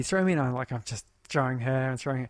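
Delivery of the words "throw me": lightly voiced kid, pitched higher; a hint of an eager child's call; imitating child. Daughter asking to be thrown in the water, lightly imitated child voice.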